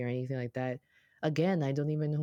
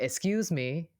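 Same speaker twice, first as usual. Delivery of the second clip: a louder, higher "Excuse me" with a rising end; 4 semitones higher, 3 dB louder, slower than usual. Retold or imitated. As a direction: call out "Excuse me" louder so she hears through the mask. Third ask, she still can't hear.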